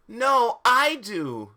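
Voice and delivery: loud, high counter-claim; shouted retort. Acted. Rival insisting on the seat next to her, shouted. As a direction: shout back in mock outrage.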